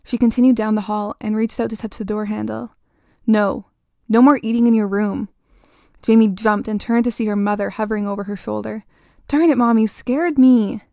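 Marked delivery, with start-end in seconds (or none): 3.2-5.3 sharp, louder stern mother; mom scolding. Acted. Mother catching her daughter sneaking food, scolding loudly. 9.3-10.8 louder, startled outburst slowing on the end. Acted. Startled girl snapping at her mother who crept up.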